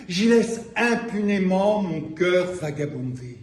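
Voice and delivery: declaimed poem with deliberate pauses between phrases; measured spoken-word reading; poetry recital. Acted. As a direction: recite phrase by phrase, swelling and dropping away. Reads own poem aloud to audience.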